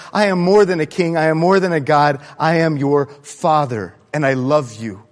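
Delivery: lightly voiced loving father, firm then tender; God telling his child he is loved, softening; voicing God the Father. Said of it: "He reaches down and he says".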